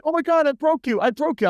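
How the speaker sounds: high, frantic imitation of a panicking server; panicked server. Server panicking after accident.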